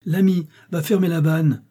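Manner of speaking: high, loud urgent command; shouted order. A narrator's reading. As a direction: call the order across the mill. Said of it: "cria-t-il au troisième garçon".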